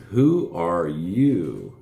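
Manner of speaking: very slow, drawn-out question; slow dog voice. Pretend. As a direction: drag it out like the dog. Voicing the dog.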